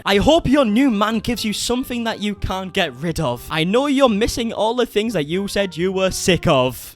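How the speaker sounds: lyrics recited in Northern English; deliberate Northern English lyric reading; awful Northern English accent. Acted. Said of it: "in my awful Northern English accent".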